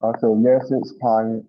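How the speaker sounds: muffled. Real, not acted. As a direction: voice muffled by a bad mic. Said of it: "You're still muffled".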